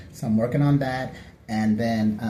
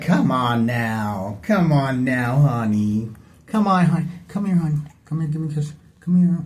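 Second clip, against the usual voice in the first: mock cooing.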